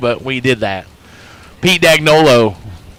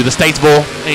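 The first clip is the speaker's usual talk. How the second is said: Hoosier accent. Shown as a demonstration. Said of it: "It does get worse when I'm around you".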